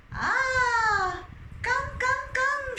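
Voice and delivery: high, loud welcoming wife; a happy wife calling him in; high eager welcome. Acted. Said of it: "she said".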